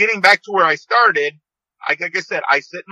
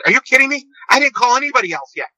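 high, fast, breathless with excitement; overjoyed friend; 8 semitones higher, much faster than usual. Retold or imitated. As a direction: retell his giddy disbelief at top pitch. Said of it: "he's going bat crap crazy".

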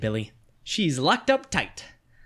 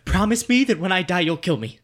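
desperate demand; 4 semitones higher, 4 dB louder than usual. Acted. Zombie-bitten boy grabs friend's collar.

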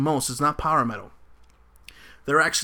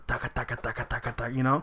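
drum imitation; 3 semitones lower, 5 dB quieter than usual. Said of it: "the drums and the".

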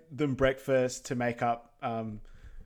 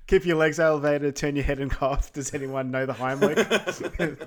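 mock frantic Donkey; 2 semitones higher, 7 dB louder than usual. Acting Donkey fussing over Shrek.

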